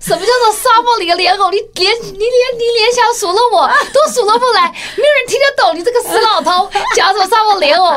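high, derisive, mocking laughing voice, acted out. Retelling how a wife laughed at her husband's foolish phrase, laughing mockingly. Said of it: "就哈哈大笑说".

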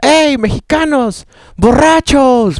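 very high, loud shout, sounding distant. Retelling how a ship passenger shouted at the speaker and the bassist, shouting from afar. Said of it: "nos gritó así de lejos".

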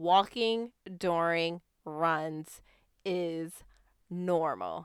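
deliberately slow. Encouraging runners about taking walking breaks, repeating the point, said slowly. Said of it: "I wanted to say that slow".

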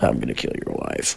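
very low, rough, creaky villain voice. Doing a Mission Impossible Three villain line: Philip Seymour Hoffman impression. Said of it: "That's my Mission Impossible Three Philip Seymour Hoffman".

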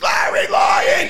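loud drawn-out scream.

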